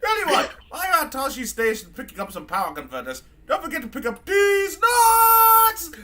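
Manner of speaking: loud, high mocking drunken announcement; sarcastic high-pitched drunk droid; drunk C-3PO. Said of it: "three P O's just a mean fucking drunk".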